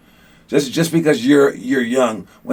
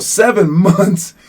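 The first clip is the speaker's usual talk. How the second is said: astonished; 6 semitones higher, slower than usual. Retold or imitated. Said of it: "I was like".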